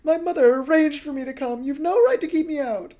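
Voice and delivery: high, loud shouting. Acted. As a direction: keep yelling through the door. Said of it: "the person shouted".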